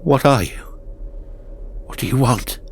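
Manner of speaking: frightened. Acted. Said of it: "My voice frightened me".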